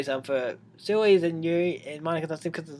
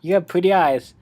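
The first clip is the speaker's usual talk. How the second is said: put-on loud eager girl voice; 3 semitones higher, 7 dB louder than usual. Yuri voice, loud.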